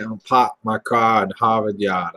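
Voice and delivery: Boston accent tried with R's dropped: pahk my cah in Hahvahd Yahd; imitating Boston accent. Shown as a demonstration. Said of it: "learning a new language today".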